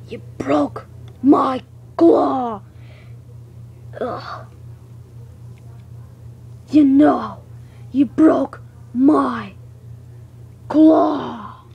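slow whispered hurt whine; mock whimper. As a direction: whimper it like a wounded monster. Hurt creature complains.

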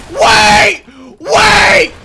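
real panicked shouting; frantic shout. Real, not acted. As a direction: beg then threaten in a panic. Gamer pleads then threatens.

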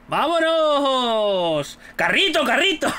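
slow stretched cheer, falling at the end; drawn-out cheer. Real, not acted. Gamer cheering after winning, long stretched cheer. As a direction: draw the word out like a chant. Celebrating again.

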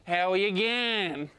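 drawled Aussie greeting, slow; Australian accent. Retold or imitated. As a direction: slur it a little, outer suburbs. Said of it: "the less syllables people use".

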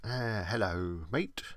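a joking bad English accent greeting; a deliberately dodgy English accent, drawn out. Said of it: "I did a dodgy English accent there".

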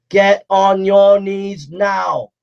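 slow, shouted order to kneel; shouted command. Real, not acted. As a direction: bellow it at the crowd.

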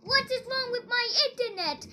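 loud high no; frustrated shout. Real, not acted. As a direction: yell in frustration. Internet fails.

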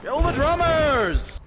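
slow, drawn-out battlefield order; rallying war cry; battle cry. Pretend. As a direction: call out the order, stretching the last word.

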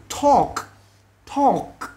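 "Talk" with a released final k; high, isolated "Talk", crisp k at the end; clear final sound. Shown as a demonstration. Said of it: "Các bạn để ý âm cuối".

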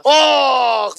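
hammed-up moan, mocking the caller; mock groan. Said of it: "βογκάει". (κοροϊδευτικό, παρατεταμένο βογκητό)

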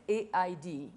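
A I D spelled letter by letter. Shown as a demonstration. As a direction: say A I D as separate letters, clearly. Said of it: "because I know I cannot pronounce it well".

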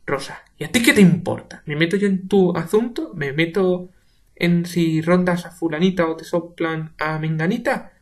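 shouted retort; angry retort. Acted. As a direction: hit back at him. Rosa attacking Urbano.

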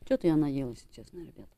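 talking with food in mouth; eating between words; chewing while talking. Real, not acted. Seen 4: Puts small food pieces in mouth and chews while talking.

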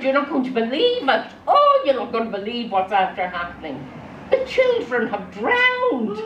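high, hammed-up breathless news-breaking; mock alarm. Wife tells husband the children drowned, hammed-up alarm. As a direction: rush in loudly, then draw out the awful news.

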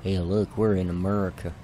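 joking attempt at an American accent; Canadian doing an American accent; mock American accent. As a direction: put on a playful American accent. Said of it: "that's my best American accent".

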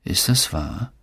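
whispered. A narrator's reading. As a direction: ask it under your breath. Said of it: "flüsterte er".

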